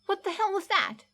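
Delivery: high, alarmed outburst; shocked. Acted. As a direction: blurt it out in disbelief. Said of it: "His eyes wide".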